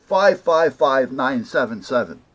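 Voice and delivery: loud, punched-out digits; emphatic recital. Retold or imitated. Clerk reads model number to doubting caller, loudly insistent. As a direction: imitate a clerk hammering out each number.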